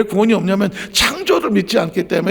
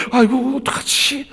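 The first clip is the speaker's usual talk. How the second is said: mock fretting; 8 semitones higher than usual. Voices a worried believer.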